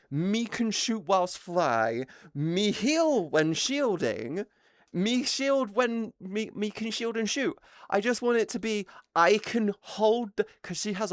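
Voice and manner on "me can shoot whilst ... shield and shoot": slow simple-minded brute voice; slow lightly voiced caveman; dumb caveman talk. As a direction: talk like a caveman planning a build. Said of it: "caveman talk".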